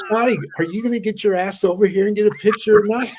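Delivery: loud, fast call across the room. Retold or imitated. Calling wife over for a picture, loud and fast. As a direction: hurry her over, loud and teasing.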